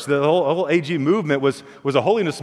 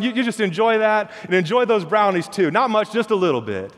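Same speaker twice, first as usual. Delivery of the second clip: mom's sly reveal; 3 semitones higher than usual. Acted. Mom reveals her trick.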